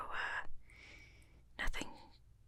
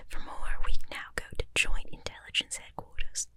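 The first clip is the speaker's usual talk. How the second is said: put-on whispered British news anchor accent, more committed; better British accent; 8 dB louder than usual. Second, better try at a whispered British anchor accent. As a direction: lean harder into the British anchor sound, still whispered. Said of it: "And now a better British accent".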